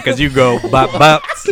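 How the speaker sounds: loud, drawn-out mock Texan accent; horrible Texan accent. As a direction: laughingly belt it out in bad Texan. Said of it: "that was my horrible Texan".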